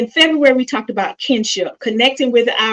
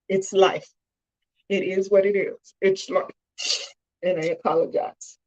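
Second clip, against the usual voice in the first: choked up; 5 dB quieter than usual. Real, not acted. Daughter accepting her father's illness, quietly choked up. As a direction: sink quieter, holding back tears. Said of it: "I'm sorry I'm choking up".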